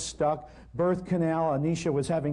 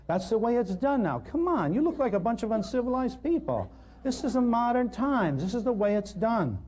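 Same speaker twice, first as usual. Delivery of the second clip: higher, scoffing modern-times voice; mocking know-it-all; 6 semitones higher than usual. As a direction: scold us like uncivilized people. Mocking the modern appointment-birth attitude.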